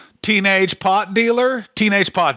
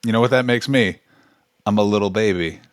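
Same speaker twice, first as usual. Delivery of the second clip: put-on whiny baby voice; 9 semitones lower, faster than usual. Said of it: "he had come out and been like".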